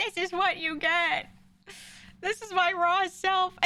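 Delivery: mock screech, very high and drawn out. Retelling sitting there screaming at a woman: retelling a scream. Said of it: "sitting there like screaming at her".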